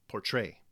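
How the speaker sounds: "Portray" in a da-dum beat, stress on "tray"; heartbeat stress. Shown as a demonstration. Teacher fits the word to a heartbeat, "Portray" stressed on "tray". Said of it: "the sound that a heart makes as it beats".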